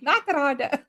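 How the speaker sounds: put-on starstruck little boy, Afrikaans accent; child's Afrikaans accent. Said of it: "in his little Afrikaans accent".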